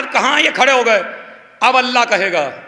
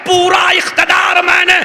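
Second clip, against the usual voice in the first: preaching at full force; 6 semitones higher than usual. Acted. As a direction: lift the crowd to its peak. Climactic majlis preaching.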